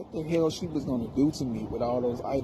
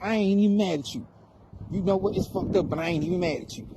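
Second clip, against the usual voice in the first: higher, mock-heated boyfriend repeating himself; imitating the boyfriend; 4 semitones higher than usual. Young boyfriend calling her, higher, mock-heated insistence. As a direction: play the wound-up kid insisting he isn't mad.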